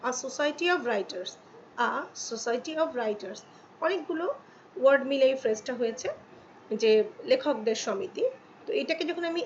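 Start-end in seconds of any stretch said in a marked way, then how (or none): 0.1-3.4 slow repeat. Shown as a demonstration. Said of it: "এখানে example দেখো".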